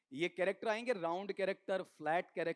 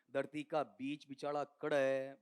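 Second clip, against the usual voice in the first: slow, lower Haryanvi question; Haryanvi dialect; 4 semitones lower than usual. Acted. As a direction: ask it slowly in rustic Haryanvi. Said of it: "बहुत बार बोलता हूं ना हरियाणवी". (हरियाणवी लहजे में धीरे-धीरे)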